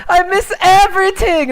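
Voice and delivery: high "I miss everything" whine, normal pace; quick repeat of the tired lament; mock whining player; whiny Jackie impression. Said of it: "Jackie's like".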